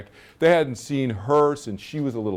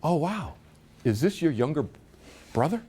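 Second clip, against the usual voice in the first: mock amazed, higher-pitched question; retold surprise; 4 semitones higher, 3 dB quieter than usual. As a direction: imitate relatives cooing in surprise. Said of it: "and they went".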